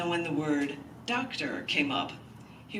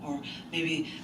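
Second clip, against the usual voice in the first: poem reading. Acted. Reads poem aloud.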